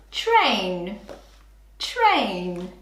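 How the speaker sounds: train said slowly and clearly, rising then falling; clear model word. Shown as a demonstration. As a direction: model train for children to copy. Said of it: "Say train".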